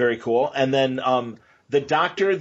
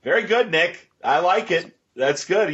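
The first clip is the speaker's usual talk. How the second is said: smiling voice; 6 semitones higher than usual. Real, not acted. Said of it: "you can hear the smile in my voice".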